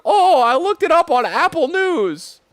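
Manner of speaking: put-on high, slow old-lady voice; lightly mocking grandma impression; imitating grandma. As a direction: mimic grandma, way up high and sweet. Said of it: "she's like".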